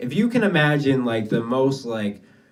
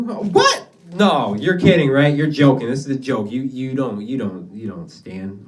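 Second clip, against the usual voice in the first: mock disbelief. Classmates' disbelief voiced.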